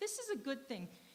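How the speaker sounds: ordinary talk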